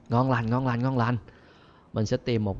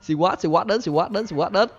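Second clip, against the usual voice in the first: excited alarm; 6 semitones higher, much slower than usual. Real, not acted. Telling viewers SWAT arrived, excited alarm. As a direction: warn that SWAT is here.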